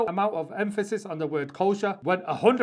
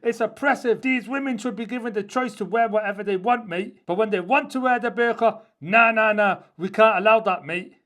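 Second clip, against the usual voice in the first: hammed-up bloke mocking the hypocrites, louder on the nahs; 3 semitones higher, 5 dB louder than usual. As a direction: sarcastically play the loudmouth saying mate. Mocking critics of the burqa.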